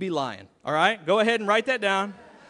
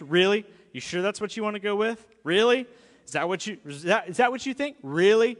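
skeptical parent. Retold or imitated. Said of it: "you do that to your kids".

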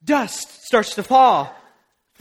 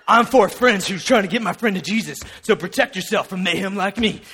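Mayhem ad parody; 4 semitones lower than usual. Retold or imitated. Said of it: "those Mayhem commercials".

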